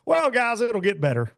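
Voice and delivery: high-pitched mock consolation; awkward consoling host. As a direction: imitate a host offering lame comfort, voice lifted high. Mimics awkward consoling of anglers.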